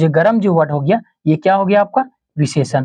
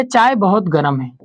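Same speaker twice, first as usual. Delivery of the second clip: slow and a little lower, as if dictating; teacher dictating a sentence at slow speed; slow dictation; 3 semitones lower, slower than usual. Shown as a demonstration. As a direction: dictate the sentence slowly to the class. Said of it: "जैसे कि लिखे".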